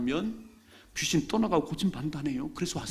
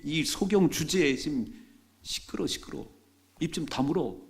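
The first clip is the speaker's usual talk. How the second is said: scolding crowd; 2 semitones higher than usual. Acted. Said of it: "옆에 사람들이".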